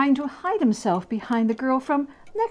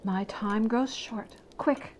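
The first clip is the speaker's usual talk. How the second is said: softer, hurried spirit; urgent ghost; 5 dB quieter than usual. Acted. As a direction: press him to move on. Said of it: "said the ghost".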